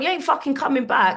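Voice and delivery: high, loud, final; mock stern refusal. Comic refusing to let her friend come back, high and loud. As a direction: shut him down.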